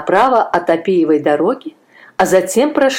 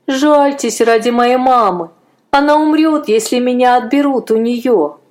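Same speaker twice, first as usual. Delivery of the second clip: put-on higher, louder boyish plea; frightened boy pleading; 6 semitones higher, 3 dB louder than usual. A narrator's reading. A frightened boy begs a Roman officer, higher and louder. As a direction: beg like a scared boy. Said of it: "бормотал мальчик".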